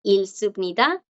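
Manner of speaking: "ilsupnida" with the G silent; teacher's example "ilsupnida", no G; blocked G. Shown as a demonstration. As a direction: move from L straight to S in "ilsupnida". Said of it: "la que sigue la bloquea".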